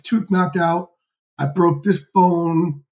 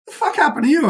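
mock boss outburst; 10 semitones higher than usual. Chairman reacts to injured face.

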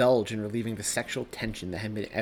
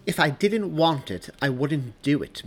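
cold; 5 semitones higher, 7 dB louder than usual. Acted. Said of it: "Mary's voice is cold".

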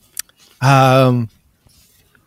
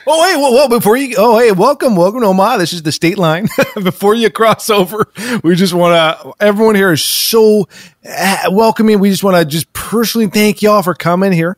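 excited welcome; 4 semitones higher than usual. Acted. Over-eager welcome at the state line.

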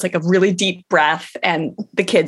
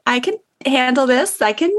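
higher-pitched, talking herself down from hurt; self-soothing inner voice; 5 semitones higher than usual. Retold or imitated. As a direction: coax yourself through the feeling, pitch raised. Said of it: "I'm like".

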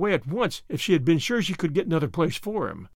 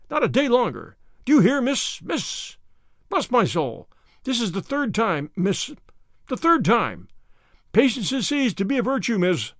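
storming in to complain, worked up; irate old farmer; 3 semitones higher than usual. Acted. Irate neighbour storms at Anne.

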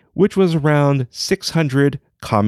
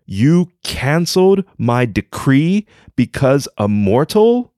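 indignant emperor. Acted. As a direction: scold the dragon in disbelief. Emperor scolds the dragon.

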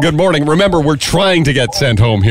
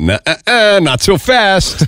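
mock scolding; 6 semitones higher, slower than usual. Amazon voiced blocking the seller.

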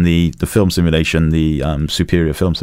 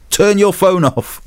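stern order; 12 semitones higher, slower than usual. Retold or imitated. Rescuer tells him off.

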